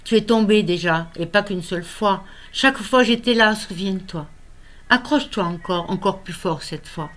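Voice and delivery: measured poem recital, lifted phrase openings, frequent pauses; poem reading. Acted. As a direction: read your own poem aloud, line by line. Lit son poème. (lecture de poème, posée et expressive)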